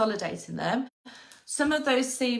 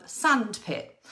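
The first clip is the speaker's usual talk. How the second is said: "sandpit" said slowly and clearly; slow example word. Shown as a demonstration. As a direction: stretch out "sandpit". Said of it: "Can they do things like".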